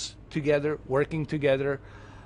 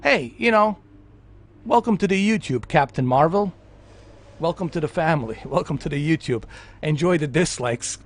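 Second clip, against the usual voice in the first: cheery welcome; 4 dB louder than usual. Retold or imitated. Welcoming Captain Marvel to YouTube, cheerfully. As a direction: welcome her warmly with a teasing edge. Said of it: "to tell her".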